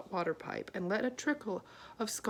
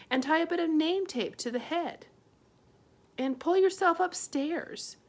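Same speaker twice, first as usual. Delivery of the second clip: higher, louder, indignant; upset mother; 6 semitones higher, 4 dB louder than usual. A narrator's reading. Homily blaming herself to Arietti, raised and indignant. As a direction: scold herself for the idea.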